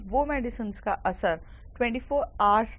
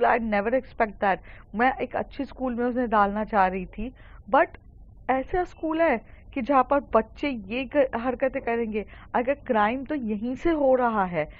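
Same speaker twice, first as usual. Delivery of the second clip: mildly raised, indignant protest; angry, aggressive mother. Acted. Mother demanding police for what was done to her daughter, mildly angry. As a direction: voice a mother's outrage, pitched a little up. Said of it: "काफ़ी गुस्से में और aggressive रहती हैं, वो चिल्ला रही रहती".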